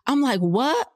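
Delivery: high, sharp indignant what; sassy high what. Retold or imitated. Snapping back at the guard, high and indignant. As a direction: fire back at the guard with attitude. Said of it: "God's still working on me".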